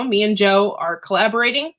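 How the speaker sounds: talking with a tickle in the throat; throat catching. Real, not acted. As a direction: voice catching on smoke. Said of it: "I don't know why I'm choking".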